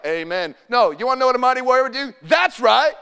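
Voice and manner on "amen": lower, softer, dutiful amen; unenthused amen. Retold or imitated. Preacher mocks the sleepy congregation, flat mock amen. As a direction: mimic a half-hearted, bored amen. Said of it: "Y'all sitting there like".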